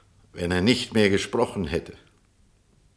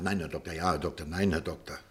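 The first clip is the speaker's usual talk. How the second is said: mock automaton; 3 semitones lower, 8 dB quieter than usual. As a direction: parrot her like a bored machine. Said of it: "antworten Sie mir nicht wie ein Automat".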